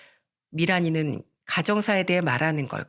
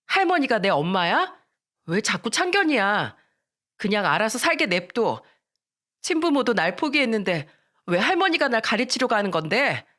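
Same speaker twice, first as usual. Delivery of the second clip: put-on annoyed, slightly raised teenage retort; defiant backtalk; 3 semitones higher than usual. Miran defying her scolding grandmother, angry. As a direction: talk back with mild anger.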